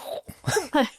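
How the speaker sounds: short breathy big-cat snarl; leopard snarl. Acted. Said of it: "That was my leopard".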